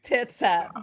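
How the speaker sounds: loud cheer of tits up; cheers shout. Acted. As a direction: shout it like a toast. Cheers ritual.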